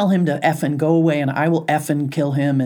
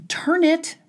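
stern command; 11 semitones higher, much slower than usual. Pretend. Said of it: "telling off a loud stranger".

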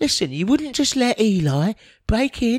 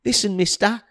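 put-on cheeky scrappy street kid. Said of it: "the little urchin boy".

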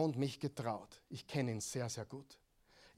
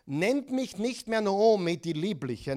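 Naomi's bitter lament; 5 semitones higher, 6 dB louder than usual. Acted.

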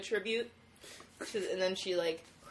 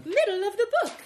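announcer voice; 12 semitones higher, 5 dB louder, faster than usual. Pretend. Announcing section, high voice.

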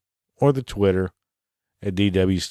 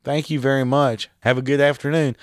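polite work voice; 4 semitones higher than usual. Pretend. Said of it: "I'm just saying it to be polite".

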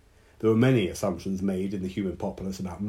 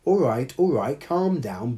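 higher duck voice calming her; soothing quack; 5 semitones higher, 4 dB louder than usual. Acted. Bertie the duck calming Hannah, lightly higher quacking. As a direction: settle her down, duck style. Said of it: "Bertie quacked again".

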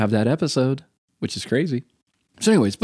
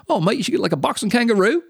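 higher, lightly voiced Aussie mates; imitating Australian friends; 10 semitones higher than usual. Australian classmates suggesting a tattoo, lightly voiced. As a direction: toss the idea off like a cheeky Aussie mate. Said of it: "And they're like".

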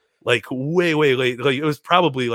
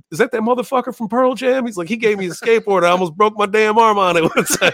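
high-pitched, animated mimicry; mock indignation, pitched well up; indignant celebrity impression; 8 semitones higher, 4 dB louder than usual. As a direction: act out a comic's outraged recollection. Celebrity's indignant reply acted out.

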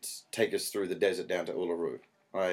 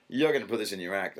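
knowing suspicion. Retold or imitated. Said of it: "there was a".

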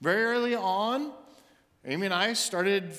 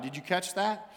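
usual speaking voice

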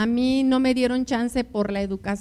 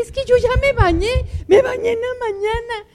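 whining husband, louder; 12 semitones higher, 6 dB louder than usual. Retold or imitated. Husband protests again, cry heard.

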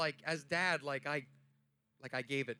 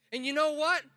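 higher, louder, slow rallying cry; shouted preaching; 6 semitones higher, 5 dB louder, slower than usual. Acted. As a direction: shout it like a final charge. Shouted climax of sermon.

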